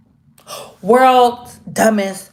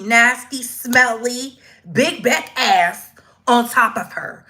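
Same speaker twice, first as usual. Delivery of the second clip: ordinary talk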